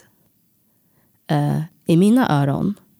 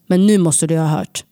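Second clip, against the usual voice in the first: firm voice. Retold or imitated. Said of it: "med en bestämd röst".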